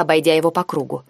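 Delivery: usual speaking voice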